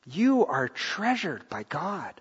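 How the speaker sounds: slow and soft; softly and slowly, so it lands; tender reassurance. Real, not acted. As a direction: lay it gently on each listener. Pastor assures congregation of worth.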